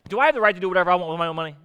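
the question rattled off very fast; preacher rushing through the question again; rapid-fire question. Shown as a demonstration. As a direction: fire off "Do I have the right" quickly. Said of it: "Let's just ask that in isolation".

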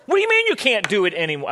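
mock yelling. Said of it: "I'm not yelling at you".

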